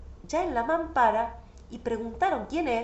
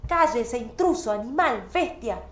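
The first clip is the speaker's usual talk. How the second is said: angry outburst; 3 dB louder than usual. Retold or imitated. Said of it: "le dije".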